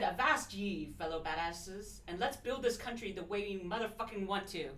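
dramatic pirate reading. Shown as a demonstration. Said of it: "I don't know if I can read it as dramatically as I should".

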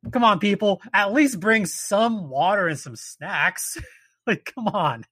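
high, drawn-out scolding; fed-up plea. Real, not acted. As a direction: lecture them slowly and firmly. Scolding unprepared hikers.

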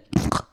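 short accidental snort; real snort. Real, not acted. Storyteller accidentally snorting into microphone, short real snort. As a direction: let a brief snort slip into the mic. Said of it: "I just snorted into the microphone".

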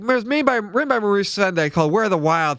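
put-on high, bouncy kids show host voice; lightly playing a cheery kids host. Mock review of a children's book.

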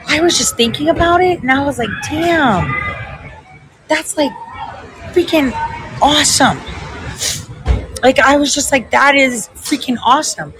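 high-pitched, choked-up wonder; moved to tears, voice pitched well up; teary-eyed. Real, not acted. Woman moved by realizing who her employer really is, teary-eyed. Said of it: "I'm getting teary-eyed again".

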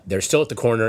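usual speaking voice

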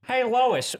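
a comic cartoon-dad impression; Peter Griffin. Telling his wife about the baby, light cartoon-dad voice. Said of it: "decent Family Guy characters".

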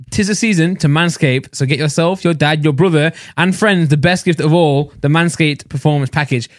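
upbeat sponsor read to camera. Acted. Podcast host reading the Manscaped ad to listeners, upbeat ad read. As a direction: sell it like a holiday ad.

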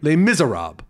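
"Les Miserables" anglicized as "miser-ob"; "Les Miserables" with no French ending; mock mispronunciation. Shown as a demonstration. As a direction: imitate someone saying "Les Miserables" wrong. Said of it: "that would be wrong".

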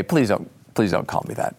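a grave man quietly asking not to be called Dick; Dick Cheney voice. Retold or imitated. Cheney asking the time traveler not to call him Dick, deep and low. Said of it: "He'd say it in a very deep voice like this".

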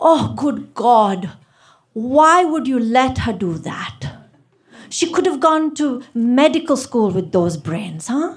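a hint of a judgy aunt at a party; nosy auntie. Teller voicing a meddling woman at the party, lightly put on.

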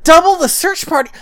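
loud, high-pitched incredulous echo; furious disbelief. Retold or imitated. Host reacts to the king's feeble order, incredulous and exasperated. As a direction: throw the order back, outraged. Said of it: "here's the thing that makes me furious".

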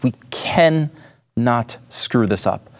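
CANNOT split in two and drawn out, with a pause; emphatic warning. Real, not acted. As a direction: stretch "cannot" slowly, then let the end drop. Stresses urgency of the decision.

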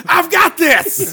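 mock confident. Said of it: "He's like".

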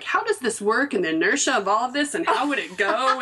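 lightly voiced curious boy puzzling it out; wondering aloud like a six-year-old Einstein; curious little scientist. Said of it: "but is like".

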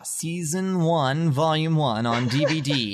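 slow announcer read; like a radio ad announcer. Acted. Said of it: "That was my radio voice".

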